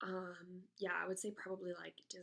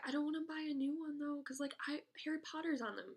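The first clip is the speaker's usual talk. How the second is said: higher, faster mock boyfriend voice; lightly lampoon the boyfriend, higher and quick; imitating boyfriend; 7 semitones higher than usual. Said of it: "he's like".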